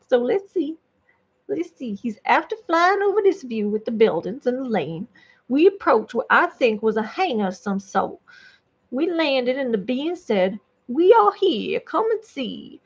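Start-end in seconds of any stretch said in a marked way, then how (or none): 1.9-10.6 lightly hammed-up Southern hick narrator. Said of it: "this voice kinda works for this alien hick dude". 10.9-12.8 Southern hick alien, lifted then dropping away. Pretend. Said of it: "It's a hick alien is too weird".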